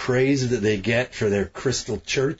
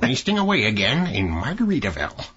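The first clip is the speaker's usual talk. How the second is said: little accountant voice; faster than usual. Retold or imitated. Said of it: "little accountant voice".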